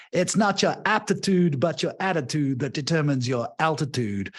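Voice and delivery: lightly put-on Southern American accent. Coach quoting an American motivational speaker, rough Southern US accent. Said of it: "Forgive my terrible Southern U S accent".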